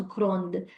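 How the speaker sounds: "grande" with a sounded d at the end; emphasized final syllable. Shown as a demonstration. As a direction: land on the closing d of "grande". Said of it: "emphasize on the last syllable".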